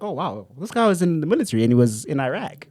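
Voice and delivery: imitated American accent, caught by accident; American twang, ending on eye-rack. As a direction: slip into an American accent, impressed. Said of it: "why am I speaking like that?".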